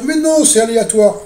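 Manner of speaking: imitation moqueuse. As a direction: parrot the doubters in a high, naive protest. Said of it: "il y a des gens qui vont dire". (imitation moqueuse des gens naïfs, plus aiguë et plus forte)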